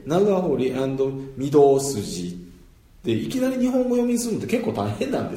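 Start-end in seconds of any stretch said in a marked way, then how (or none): 0.0-2.4 長堀アンド御堂筋 said flat without stress, slowly; flat Japanese reading. Shown as a demonstration. Teacher showing the stressless Japanese reading. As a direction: read it evenly, mora by mora. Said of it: "強制がないんで".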